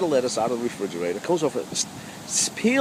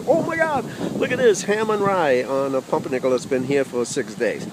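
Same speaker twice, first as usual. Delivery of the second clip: mock amazement. Mock delight at stale deli sandwich.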